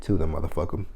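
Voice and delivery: soft whispered punchline; whispered aside. Pretend. Wishing Melba harm, sly whisper. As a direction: drop to a whisper for the kicker.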